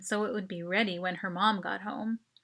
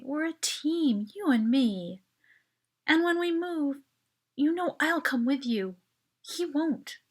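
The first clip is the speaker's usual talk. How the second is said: more gently; 6 semitones higher than usual. A narrator's reading. Narrator comforting Mel in bed, gentle and tender. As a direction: speak gently, coaxing her. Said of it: "I said more gently".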